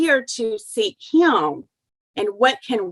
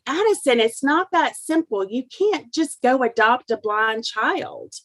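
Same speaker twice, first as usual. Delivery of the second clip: imitating an exasperated dad, raised pitch; mildly frustrated; 3 semitones higher than usual. Husband scolding teenage son over adoption, mildly frustrated. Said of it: "almost kind of like in a frustrated".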